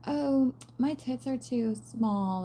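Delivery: slow, mocking whine of a mean girl; mock whiny girl. Mocking a girl whining to her friends at the mirror, slow mock whine. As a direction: drag out the self-pity like a teen in a mirror. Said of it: "something like".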